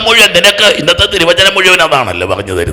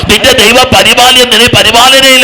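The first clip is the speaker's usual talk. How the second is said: full-force preaching; 4 semitones higher than usual. Real, not acted. Preacher rousing a congregation to shout hallelujah, full-force preaching. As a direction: proclaim it to a crowd, driving each phrase.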